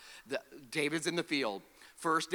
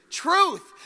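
"Truth" called out loud and high; preacher shouting "Truth" for the church to repeat; proclaimed shout; 11 semitones higher, 9 dB louder than usual. Shown as a demonstration. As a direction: ring out "Truth" for the crowd to echo. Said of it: "Say truth".

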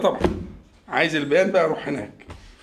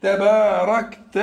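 تباركت said slowly with a rise, inviting the class to finish; slow prompting word; much slower than usual. Shown as a demonstration. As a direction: draw out تباركت and leave it hanging. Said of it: "ها؟". (نطق بطيء مع نبرة صاعدة)

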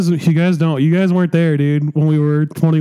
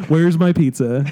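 laughing mock shout. Joking demand for pizza.

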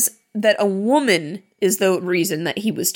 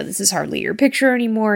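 mock vampire threat; faster than usual. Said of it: "This is the part where he says".

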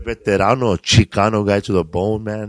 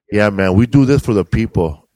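mock activist; 6 dB louder than usual. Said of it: "some normal people say".

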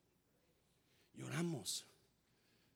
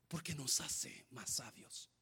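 suddenly much softer and slow; soft, slow drop; 5 semitones lower, 15 dB quieter, slower than usual. Real, not acted. Pastor quietly telling the church crying makes us wise, slow hush. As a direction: pull back to a hush.

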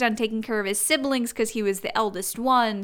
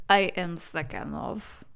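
put-on Russian accent; 4 semitones lower, 5 dB quieter, slower than usual. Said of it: "Use your Russian accent, please".

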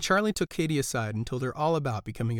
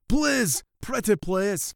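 higher pleading voice; pleading mice; 8 semitones higher, 3 dB louder, much slower than usual. A narrator's reading. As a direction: beg sweetly. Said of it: "pleaded the mice".

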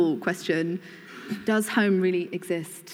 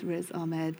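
soft, slow, bored-sounding list; 5 dB quieter, slower than usual. Real, not acted. Host introducing a familiar guest's credits, bored. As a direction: reel off the credits softly, without enthusiasm. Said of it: "Like, bored".

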